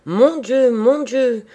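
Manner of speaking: high, loud, flustered outcry; frantic, overwhelmed exclamation. A narrator's reading. Old man running about the room on meeting the visitor, overwhelmed exclamation. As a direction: exclaim it as if quite beside yourself. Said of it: "courir égaré dans la chambre en faisant".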